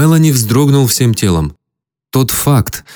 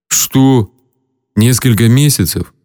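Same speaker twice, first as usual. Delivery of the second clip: mumbled through swollen, battered lips; mumbling through swollen lips. Acted. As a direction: talk as if your lips are puffed up. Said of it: "пробубнил он распухшими губами".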